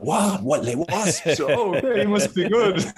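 high, laughing mock-impressed voice; high-pitched amused mimicry; mock gullible voice. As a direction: ham up their naive surprise. Mocking club's gullible reply.

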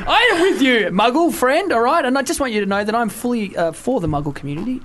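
excited Harry Potter fan backing the Muggle. Acted. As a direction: gush like a Potter superfan.

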